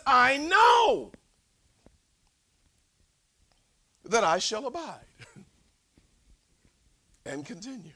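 high, loud shout easing into a laugh; shouted quote. Acted. Preacher shouting Paul's words to the congregation. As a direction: cry it out, then soften with a laugh.

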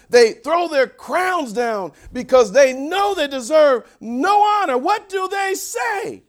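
preaching that swells to a loud, high peak; building crescendo. Real, not acted. Preacher building to the elders' worship, rising crescendo. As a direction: build steadily from firm preaching to a shouted question. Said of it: "now we hit our crescendo".

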